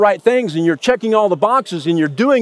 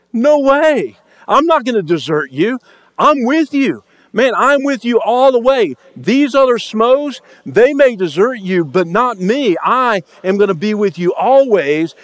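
raised, emphatic promise of loyalty; eager Peter protesting; 4 semitones higher than usual. Retold or imitated. Peter protesting loyalty to Jesus, raised and emphatic. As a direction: insist you'll never leave him.

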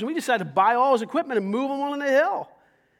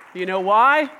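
loud, higher preacher's cry; full-force preaching; 6 semitones higher, 10 dB louder, slower than usual. Real, not acted. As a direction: preach it out to the church.

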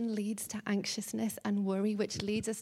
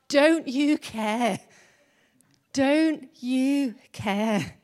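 pleading; 3 semitones higher, 7 dB louder, much slower than usual. Acted. Martha pleading with Jesus.

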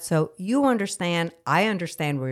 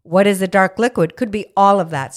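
loud rant; 8 dB louder, slower than usual. Real, not acted. Ranting about dark liquids.

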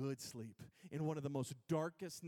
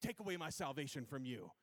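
hammed-up, higher-pitched scolding; mock angry Jesus; 4 semitones higher, 4 dB louder than usual. Imagined angry Jesus threatens believers, in a mock scolding. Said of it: "he was always angry and he's like".

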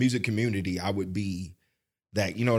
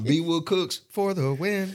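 slow catchphrase; 4 semitones higher, much slower than usual. Acted. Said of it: "he got my line".

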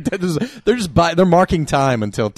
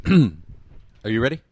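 slow, drawn-out hype announcer call; fighting game announcer; 2 semitones lower, much slower than usual. Acted. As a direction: stretch it like an arena announcer. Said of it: "do it in your best announcer voice".

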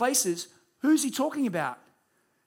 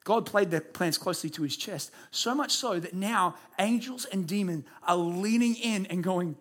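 ordinary delivery

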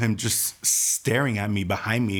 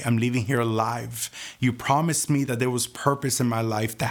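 fervent declaration; 3 semitones higher than usual. Retold or imitated. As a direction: declare it with conviction. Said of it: "I started to prophesy over my life".

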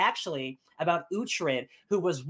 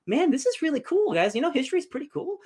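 gushing; 10 semitones higher than usual. Retold or imitated. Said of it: "and it's like".

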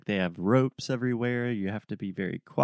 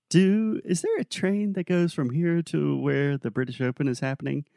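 put-on Australian accent; 6 semitones higher than usual. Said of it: "In our best Australian accent".

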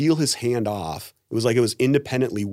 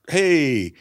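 higher, louder startled hey; surprised hey; 5 semitones higher, 5 dB louder than usual. Retold or imitated. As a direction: react like she caught you off guard. Startled by seductive woman in dream.

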